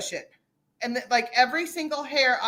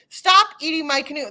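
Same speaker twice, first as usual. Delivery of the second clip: raised voice imitating a woman yelling at a bear; mildly hammed-up retold yell; mock yell; 3 semitones higher, 3 dB louder than usual. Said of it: "yelling at her, going".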